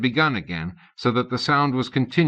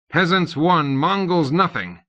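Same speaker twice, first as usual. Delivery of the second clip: gleeful gloat; 7 semitones higher, 4 dB louder than usual. A narrator's reading. Tutor gloating over fallen boy.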